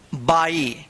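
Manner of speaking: बाई with a full ai sound, clear; teacher models बाई as by. Shown as a demonstration. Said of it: "इसको क्या पढ़ेंगे?".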